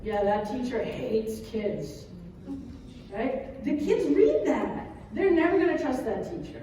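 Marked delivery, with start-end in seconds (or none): 0.0-2.1 sulky student. Retold or imitated. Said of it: "a student who's like".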